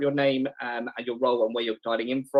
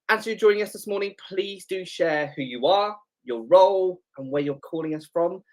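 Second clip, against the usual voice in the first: bright, upbeat host welcome; game show host voice; 6 semitones higher, 4 dB louder than usual. Real, not acted. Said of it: "sounding like a game show host".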